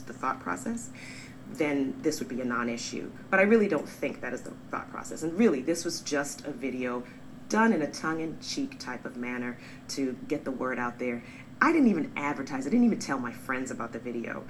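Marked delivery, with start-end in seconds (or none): none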